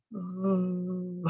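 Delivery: soft held V sound; sustained V, mouth fixed; correct V sound. Shown as a demonstration. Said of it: "Try that for yourself".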